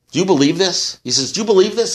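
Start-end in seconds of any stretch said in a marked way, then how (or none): 0.1-1.0 high, frantic castaway voice; pitched-up alarmed question; panicked disbelief. Retold or imitated. 1.3-1.9 high, frantic castaway voice; pitched-up alarmed question; panicked disbelief. Retold or imitated.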